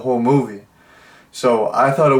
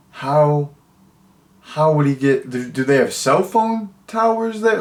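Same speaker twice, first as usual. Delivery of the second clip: rising, much higher in disbelief; baffled question; 3 semitones higher than usual. Retold or imitated. Puzzled viewer wondering about cell towers, rising incredulous voice. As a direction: ask it incredulously, pitch climbing. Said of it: "I was like".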